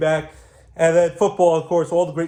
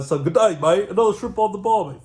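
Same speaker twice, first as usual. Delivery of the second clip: put-on Australian accent; 3 semitones higher than usual. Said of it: "My wife loves Aussie boys".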